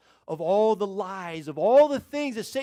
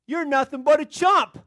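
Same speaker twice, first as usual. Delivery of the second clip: higher, louder parrot taunt; talking parrot; 6 semitones higher, 5 dB louder than usual. Acted. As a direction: jeer like an insolent parrot. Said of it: "the bird goes".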